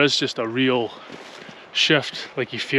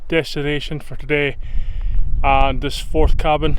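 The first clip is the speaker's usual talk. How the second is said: raised voice against the wind; shouting over wind; 4 dB louder than usual. Real, not acted. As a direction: project over a strong breeze. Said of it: "hopefully you can hear me over the wind".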